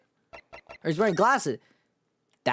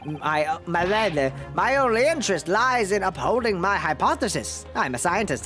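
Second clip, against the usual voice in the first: put-on very old man; 4 semitones higher than usual. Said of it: "the old man voice".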